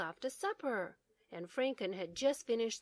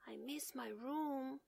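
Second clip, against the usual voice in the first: homesick; 5 semitones higher, 7 dB quieter than usual. Acted. Homesick Bear near tears.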